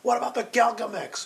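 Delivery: alien voice. Retold or imitated. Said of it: "and he's like".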